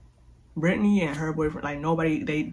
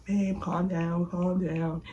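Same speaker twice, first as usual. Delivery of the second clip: calming husband; 2 semitones higher, much slower than usual. Retold or imitated. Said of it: "my mom was like".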